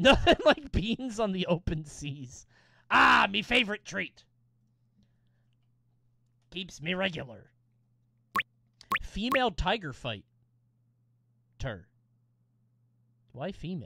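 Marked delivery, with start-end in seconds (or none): 0.0-7.5 put-on swashbuckling pirate captain voice. Playing a pirate game and speaking as the pirate: pirate voice. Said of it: "I know I'm a pirate".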